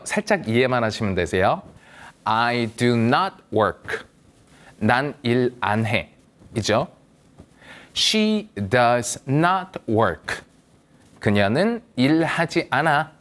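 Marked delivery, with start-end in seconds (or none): 2.2-4.1 very slow, each word apart; slow model English. Shown as a demonstration. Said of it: "일단 한번 들어보시고요". 8.0-10.4 extremely slow, "does" laid out; slow model English. Shown as a demonstration. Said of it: "일단 한번 들어보시고요".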